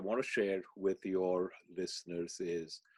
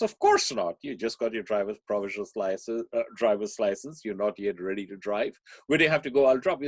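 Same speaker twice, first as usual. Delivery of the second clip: firm mother; 5 dB louder than usual. Retold or imitated. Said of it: "The mother says".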